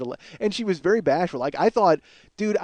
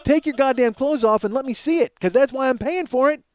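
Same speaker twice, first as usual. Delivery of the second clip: higher, louder mocking rant at celebrities; 8 semitones higher, 3 dB louder than usual. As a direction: tear into them in a mock rage. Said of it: "And it's like".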